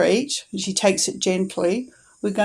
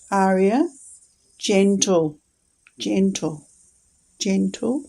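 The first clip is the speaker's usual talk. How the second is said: gentle tone; slower than usual. Shown as a demonstration. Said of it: "we're gonna say it in a gentle tone".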